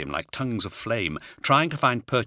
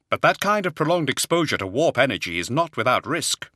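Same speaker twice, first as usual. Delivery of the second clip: higher-pitched voice cautioning a superior; hesitant but firm objection; wary librarian; 7 semitones higher, 4 dB louder than usual. Acted. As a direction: voice Zahariel warning of danger.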